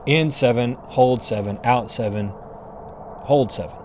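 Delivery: paced count. Shown as a demonstration. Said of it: "a normal box breathing routine for me".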